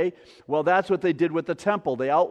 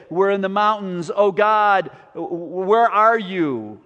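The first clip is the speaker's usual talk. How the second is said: mildly raised cry to God; pilgrims shouting psalms; 4 dB louder than usual. Acted. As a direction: call out as a pilgrim seeking God. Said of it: "they were shouting 'em".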